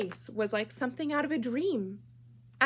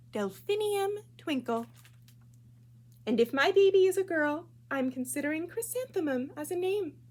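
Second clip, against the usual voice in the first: higher and louder music teacher voice; teacher's warm praise; 6 semitones higher, 4 dB louder than usual. Acted. Music teacher telling the class about her name, high bright voice. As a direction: gush over the name like a dreamy teacher.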